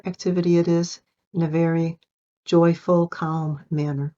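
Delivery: unhurried meditation guide with long pauses; guided meditation. Acted. Coach guiding listeners through a closed-eye reset, guided meditation. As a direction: lead them gently inward, leaving room to breathe.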